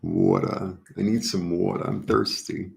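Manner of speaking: playful New York accent. Shown as a demonstration. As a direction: say it like a thirsty New Yorker. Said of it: "with that New York accent".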